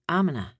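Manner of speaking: I'm gonna squashed to 'm-onna, the g almost gone; sloppier gonna. Shown as a demonstration. Coach demonstrating the sloppiest version of gonna. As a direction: slur it right down to mm-onna. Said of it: "Even better, you could say".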